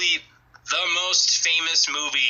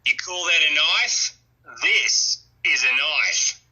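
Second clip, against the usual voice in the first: light Australian accent, slow on the second line; a hint of Australian drawl on the knife line; lightly put-on Australian accent; slower than usual. Shown as a demonstration. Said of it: "I'm gonna do the accent then".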